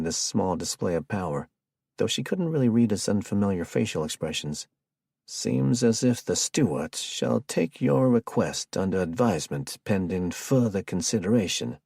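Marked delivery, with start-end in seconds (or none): 5.2-11.8 put-on a playful old Georgia gentleman accent, slowed right down; antebellum Georgia accent. Jared jokes about Stewart in a light Georgia Southern accent. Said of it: "with a pure antebellum Georgia accent".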